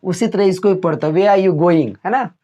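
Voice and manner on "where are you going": "Where" said as "वेया", h dropped; silent h in where. Shown as a demonstration. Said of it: "इसको वेया पढ़ेंगे".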